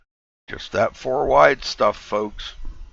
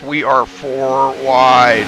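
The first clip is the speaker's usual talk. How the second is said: excited; 3 semitones higher, 6 dB louder, much slower than usual. Real, not acted. Four wide racing, rising excitement.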